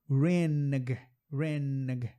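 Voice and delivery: reneg with an audible G; wrong hard G. Shown as a demonstration. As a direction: overpronounce the G as a mistake. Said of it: "Não".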